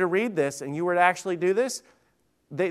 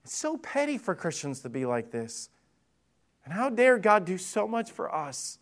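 voicing God, disgusted; 3 semitones higher than usual. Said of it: "this God's saying".

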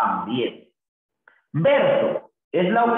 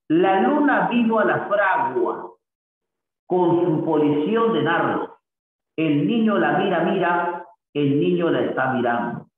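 poem recital. Shown as a demonstration. Teacher reads Lorca lines.

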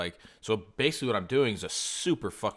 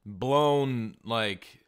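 higher, louder exasperated outburst; indignant rant; 4 semitones higher, 3 dB louder than usual. Retold or imitated. Buyer ranting at Fiverr seller over price, mock outrage. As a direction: blast him for the price hike.

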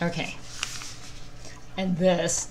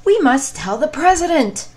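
high, loud panicky hen voice; squawking alarmed chicken; clucking hen; 10 semitones higher, 9 dB louder than usual. Acted.

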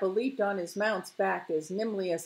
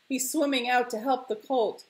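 higher, excited call; nervous reporting; 5 semitones higher, 4 dB louder than usual. Acted. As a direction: report the rescue to the crowd. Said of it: "reporting in short, nervous sentences".

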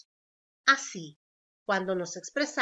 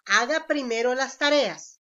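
a louder commanding tone; firm order; 5 dB louder than usual. Shown as a demonstration. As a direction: tell them to do homework first, firmly. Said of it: "Es una orden".

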